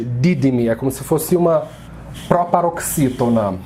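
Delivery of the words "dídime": Dídime with stress on the first syllable Dí; Greek stress. Shown as a demonstration. Teacher marks the strong syllable of Dídime. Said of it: "Essa é a sílaba mais forte".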